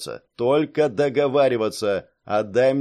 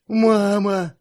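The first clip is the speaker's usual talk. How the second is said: loud, high happy cry; childlike joyful shout; overjoyed; 9 semitones higher, 5 dB louder than usual. A narrator's reading. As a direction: call out in delight on finding mother. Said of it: "обрадовался Илья".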